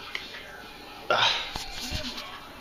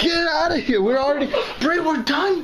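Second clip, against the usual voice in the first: squeaky high voice. Pretend. Siblings teasing, squeaky voice.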